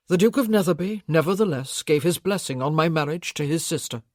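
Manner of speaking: steady bridegroom addressing the family; Gabriel voiced.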